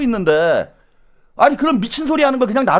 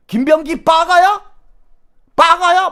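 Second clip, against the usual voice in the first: indignant, raised mocking re-enactment; imitated temper outburst; 8 semitones higher, 5 dB louder, slower than usual. Host imitating a YouTuber losing his temper, angry. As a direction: mimic an angry yell, high and loud. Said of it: "막 이러면서 성질을 내요".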